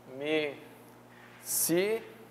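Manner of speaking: Admissível spelled out syllable by syllable, very slow; syllabified slowly. Shown as a demonstration. Teacher showing the class the syllable split: Admissível, slow and separated. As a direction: drag Admissível apart into its syllables. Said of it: "A palavra admissível vai ficar assim".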